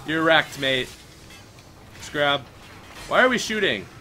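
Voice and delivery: ordinary talk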